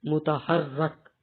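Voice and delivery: very slow, syllable by syllable; slow word demo. Shown as a demonstration. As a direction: spell it out slowly for students to memorize. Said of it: "یہ لفظ آپ نے یاد کرنا ہے". (آہستہ آہستہ، ہر حرف واضح کر کے)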